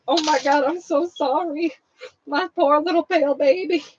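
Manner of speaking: imitated mom cooing an apology; sympathetic apology. Daughter imitating mom apologising over her sunburned scalp, sympathetic.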